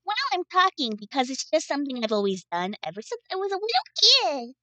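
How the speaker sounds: uber speak voice. Acted. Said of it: "talk like this".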